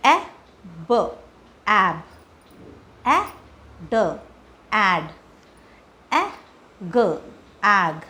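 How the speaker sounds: slow drilled letter sounds, then the blend; phonics blending demo. Shown as a demonstration. Teacher drilling short a blends for kids, slow and separated. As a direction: sound it out for the class. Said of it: "blending हम कैसे करेंगे".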